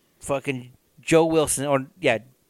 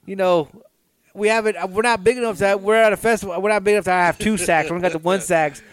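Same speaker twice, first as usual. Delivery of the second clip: higher-voiced sheepish musician excusing himself; flustered sax player; 4 semitones higher than usual. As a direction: play the embarrassed bandmate apologizing.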